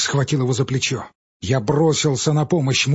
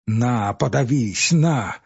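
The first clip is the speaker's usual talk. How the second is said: bitter outburst; much slower than usual. Acted. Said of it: "начал он, прищурив глаза".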